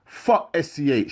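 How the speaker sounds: slow, high, loud jeer; shouted. Acted. Rival inmate shouting an insult, slow loud yell. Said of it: "shouted another voice".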